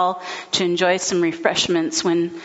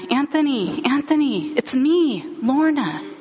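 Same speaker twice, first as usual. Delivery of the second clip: urgent calling; 6 semitones higher than usual. Retold or imitated. Wife calling to confused husband.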